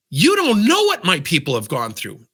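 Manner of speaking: retold indignant retort. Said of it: "And his reaction was".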